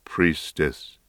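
low, gentle address; gently. A narrator's reading. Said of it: "he said gently".

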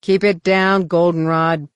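loud gruff order; bellow. Acted. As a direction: bark it across the ship. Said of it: "Han bellowed".

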